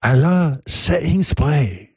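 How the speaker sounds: lightly imitated Thai-accented ladyboy; slow, imitating the podcast guest; mimicked ladyboy. Host mimics a ladyboy from the podcast clip, mock accent.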